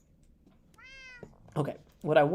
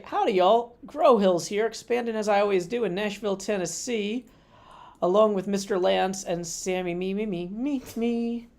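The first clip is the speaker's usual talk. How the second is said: stream intro. Acted.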